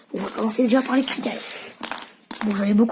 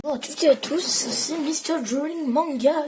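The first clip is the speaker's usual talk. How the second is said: mock English accent; 4 semitones higher, 5 dB quieter than usual. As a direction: present yourself in a playful fake English accent. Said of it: "mon accent en anglais s'est amélioré".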